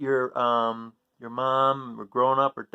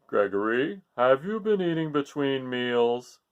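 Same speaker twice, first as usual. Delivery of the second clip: stern father; 2 semitones lower than usual. Acted. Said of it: "Father Goat turned to Gregory".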